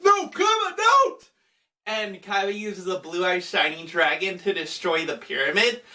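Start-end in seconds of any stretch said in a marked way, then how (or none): 0.0-1.3 very high mock cry of alarm; Yugi. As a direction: call out a desperate, hammed-up warning. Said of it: "And Yugi's just like".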